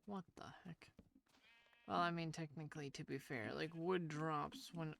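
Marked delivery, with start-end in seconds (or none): 0.0-0.9 whispering. Real, not acted. Muttered disbelief at comment.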